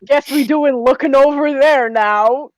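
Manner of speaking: no chill at all. Acted. Flustered character following him over there, no chill. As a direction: say it slowly with zero chill. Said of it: "says with no chill at all".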